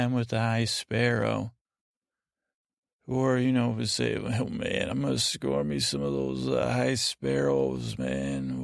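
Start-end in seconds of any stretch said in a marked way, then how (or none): 4.1-8.6 put-on old-timey slang. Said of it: "no one talks like that anymore".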